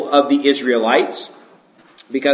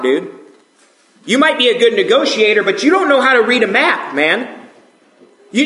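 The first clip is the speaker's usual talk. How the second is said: higher, exasperated griping at Moses; mock complaining Israelite; 5 semitones higher than usual. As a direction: gripe like a fed-up traveler, half-joking.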